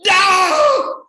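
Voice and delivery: loud high laughing no; shouted, laughing reveal. Real, not acted. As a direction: burst out the punchline. Punchline reveal.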